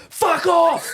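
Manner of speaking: laughing mock shout. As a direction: bark it back at the kid while laughing. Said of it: "Reese turns around and goes".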